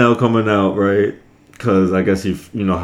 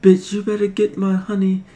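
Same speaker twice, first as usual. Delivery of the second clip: Pooh voice abusing; 8 semitones higher, 7 dB quieter than usual. Retold or imitated. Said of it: "was he doing the voices like".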